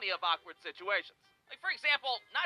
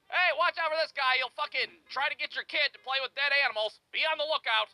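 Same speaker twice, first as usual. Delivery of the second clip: gossiping dad warning; 6 semitones higher than usual. Retold or imitated. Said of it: "he slandered my ass".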